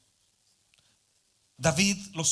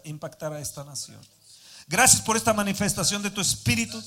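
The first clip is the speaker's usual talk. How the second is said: fervent spoken prayer; earnest prayer after the reading; faster than usual. Real, not acted. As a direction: pray earnestly to the Father. Opens a prayer.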